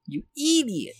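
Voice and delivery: swooping high-pitched mock insult; mock scolding. Viewer scolding Ash for checking, high mock exasperation. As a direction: leap up high on a drawn insult.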